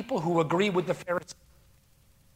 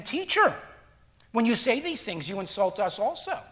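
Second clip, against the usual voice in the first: very kind manner; 2 semitones higher, 6 dB quieter than usual. Retold or imitated. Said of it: "says in a very kind manner".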